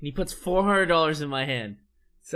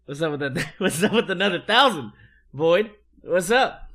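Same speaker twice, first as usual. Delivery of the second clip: laughing. Retold or imitated. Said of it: "I look at Void and I'm like".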